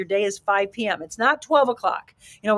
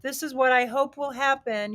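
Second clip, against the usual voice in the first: timid hoping voice; 4 semitones higher than usual. Shown as a demonstration. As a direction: say it like you barely believe it. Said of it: "You hear the difference in my inflection and my energy".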